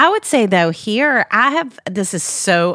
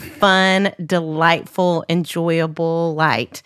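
sincere, slow; 3 semitones lower, slower than usual. Real, not acted. Slow heartfelt praise.

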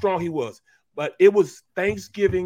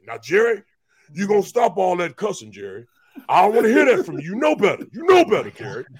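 stern churchly scold; 2 semitones higher, 6 dB louder than usual. Retold or imitated. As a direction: scold him like a deacon. Reggie scolding Jerry for cussing.

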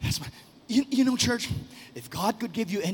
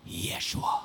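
reverent whisper; slower than usual. Acted.

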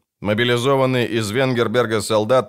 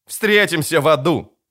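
captain vowing to meet in hell; defiant cry; 6 semitones higher than usual. A narrator's reading. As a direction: spit it out defiantly. Defiant last words.

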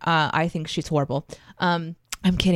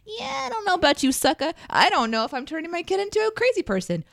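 mocking sneer; 11 semitones higher than usual. Mocking imagined judge.

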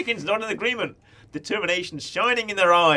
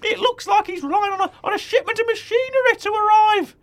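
nervous; 5 dB louder than usual. Acted.

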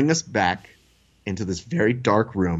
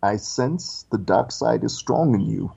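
Darth Vader. Retold or imitated. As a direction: pronounce it like a solemn dark prophecy. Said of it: "And then Darth Vader".

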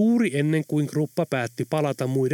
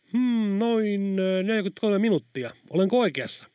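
lightly voiced driver reeling off the route, a bit higher; cheeky taxi driver; 6 semitones higher than usual. Tom Tom recites the whole route to the passengers, pitched up. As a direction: rattle off the streets like a know-it-all cabbie.

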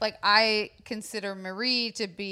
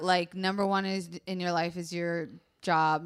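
counting joke, first item; joke list build-up; 2 semitones lower than usual. Shown as a demonstration. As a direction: stress on one. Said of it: "I joke that".

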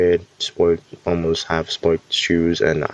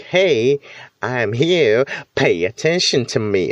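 joking attention-seeker; 4 semitones higher than usual. Pretend. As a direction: playfully demand the room's attention, not serious. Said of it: "In a joking manner".

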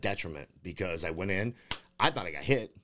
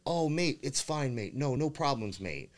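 mocking promoter voice; 6 semitones higher, slower than usual.

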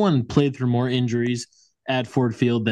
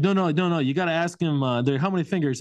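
mock coach; 5 semitones higher than usual. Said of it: "they're like".

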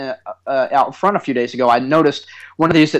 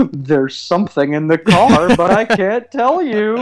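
put-on excited kid; 5 semitones higher, 4 dB louder, slower than usual. Son gives away the surprise.

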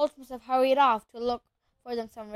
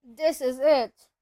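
slow, louder doomed moan; drawn-out despair; 2 semitones higher, 7 dB louder, slower than usual. A narrator's reading. Ron pushes helplessly at the locked door, moaning. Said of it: "Ron moaned".

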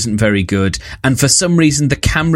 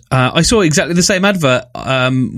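usual speaking voice

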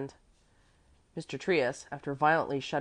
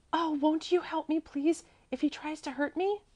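high child's plea, voiced rather than whispered; confidential plea; 13 semitones higher than usual. A narrator's reading. Frightened girl asks gentleman for help, high confidential plea. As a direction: plead high for protection. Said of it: "she whispered confidentially".

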